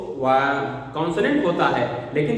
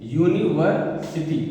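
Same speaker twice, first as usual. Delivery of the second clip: slow demo; slower than usual. Shown as a demonstration. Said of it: "जैसे हम लिख रहे हैं यूनिवर्सिटी".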